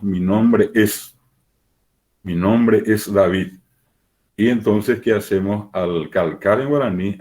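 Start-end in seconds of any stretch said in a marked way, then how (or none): 0.0-3.5 careful teaching read of "Mi nombre es"; slow Spanish model. Shown as a demonstration. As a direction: say "Mi nombre es David" slowly, stretching nombre. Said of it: "en el castellano nosotros decimos".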